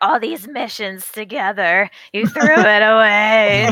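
very slow delivery, away stretched and drawn out. Retelling a scene from the show: Crosshair impression. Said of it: "Good Crosshair impression".

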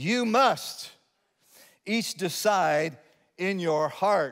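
very slow, deliberate, word-by-word reading. Reading a passage aloud to listeners, reading very slowly. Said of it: "I will read this slowly".

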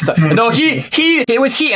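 very high, very slow, stumbling stammering blabber. Speaker acts out confronted priests blaming each other, stuttering, blabbering over themselves. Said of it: "kind of like blabbering over themselves like".

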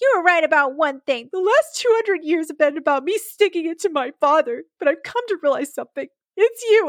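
high-pitched, whiny, complaining tone. Recapping a showdown scene, quoting the character Penn: mock-whiny Penn voice. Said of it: "Penn says in his whiny voice".

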